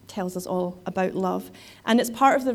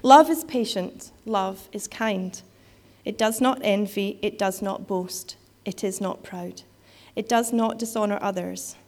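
poet reciting voice. Shown as a demonstration. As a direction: declaim it like a poet on stage. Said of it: "poet reciting voice".

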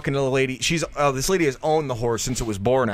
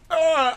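high mock "ahh" noise; high-pitched copycat "ah"; imitated "ah"; 13 semitones higher than usual. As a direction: imitate his high, silly cry. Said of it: "So he goes like this".

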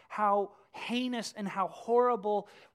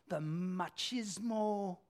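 Spanish accent; 3 dB quieter, much slower than usual. Shown as a demonstration. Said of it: "Hey, you hear that accent?".

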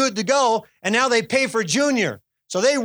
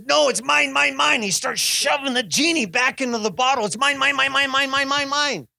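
greedy Daffy Duck whine; possessive whining; 4 semitones higher than usual. Retold or imitated. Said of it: "And he says".

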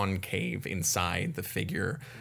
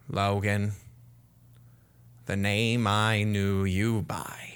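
whispered rat voice. Acted. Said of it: "looks down at you and goes".

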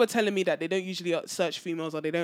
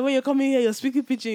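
1 teasing friend; 5 semitones higher, 5 dB louder, faster than usual. Retold or imitated. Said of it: "he was like".

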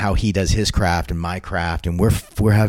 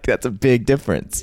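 veteran's reply; 6 semitones higher than usual. Retold or imitated. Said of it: "You know, like".

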